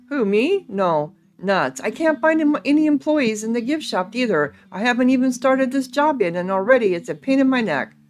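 a touch exasperated, animated character voice; lightly voiced grumbling ghost hunter. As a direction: lightly play a put-upon hired hand.

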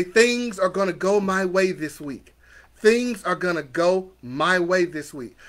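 slow, deliberate affirmation; measured, assured declaration; leading affirmations. Shown as a demonstration. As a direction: say it slowly so they can repeat it. Leads affirmations for repeating.

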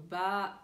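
"Bah" held long, level; drawn-out hesitation. Shown as a demonstration. Teacher shows a second French filler, drawn-out "Bah". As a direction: stretch "Bah" like someone thinking. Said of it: "Tem mais de um segundo".

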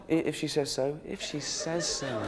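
a lightly voiced sheepish old father; meek old man. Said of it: "And he went".

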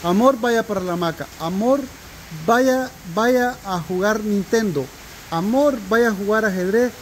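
lightly voiced loving wife pampering husband; imitating sweet wife. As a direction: coax him like a doting wife. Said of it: "que ella me dice".

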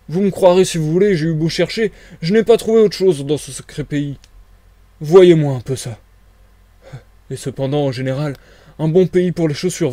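a touch of aggrieved complaint; grumbling tramp. Acted. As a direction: grumble with feeling about your bad luck.

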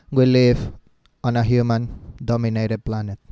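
monotone, halting read-out; lifeless wrong way. Shown as a demonstration. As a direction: drone it without any of the speaker's emotion. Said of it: "No, así no". (monótono, sin imitar la emoción)

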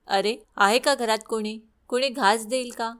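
put-on old beggar woman calling out at the door. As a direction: call into the house for food. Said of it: "तिने आरोळी दिली".

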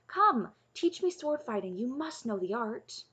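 high-pitched coaxing; urging. A narrator's reading. Taryn begging Cole for sword lessons, urging. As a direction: coax him insistently, starting high. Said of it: "Taryn urged".

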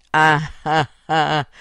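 spelled-out storybook "ha, ha, ha"; staged chuckle, starting loud; acted laugh. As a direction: laugh mockingly as the mole, deliberately spaced. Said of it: "rise Amedeo".

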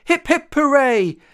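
high, loud hip-hip-hooray; roared cheer. A narrator's reading. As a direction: roar the cheer together. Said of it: "and they roared".

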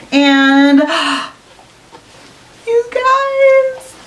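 breathless awe at the reveal; gasping excitement. Real, not acted. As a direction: gasp in awe at the surprise. Gasps at last item.

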